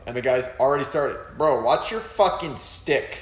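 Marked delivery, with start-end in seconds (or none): 1.4-3.2 higher-pitched, drawn-out mock scolding; mock angry complaint. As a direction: imitate an indignant player telling someone off. Acting out angry opponents' complaint.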